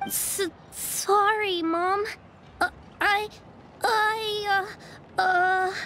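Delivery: halting, slow apology, close to tears; a scolded child stammering through sobs; sorry, mom, on the edge of crying; tearful stammer. Acted. Child caught lying, scolded.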